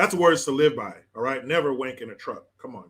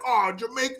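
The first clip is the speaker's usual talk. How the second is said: mad retort, mimicked in a higher pitch; higher-pitched mock indignation; 6 semitones higher, faster than usual. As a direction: imitate someone getting indignant, higher and quick. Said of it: "he gets all mad".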